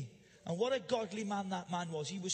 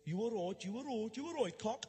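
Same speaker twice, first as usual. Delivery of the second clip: lightly imitated Black Country accent, mock-friendly. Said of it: "where they speak funny".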